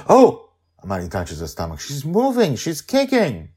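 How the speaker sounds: high, loud startled delight; joyful surprise. A narrator's reading. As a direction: burst out as the baby kicks. Amali feels baby kick.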